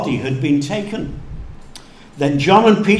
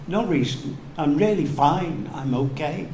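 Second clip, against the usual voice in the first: mock brushing off; 5 dB quieter than usual. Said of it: "Don't just sniff and say".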